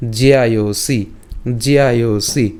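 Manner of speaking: জিআইওসি said as one word, ji-ya-yo-si; joined pronunciation. Shown as a demonstration. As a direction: model জিআইওসি carefully, with a long final i. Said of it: "একসাথে উচ্চারণ করলে উচ্চারণটা কেমন হচ্ছে".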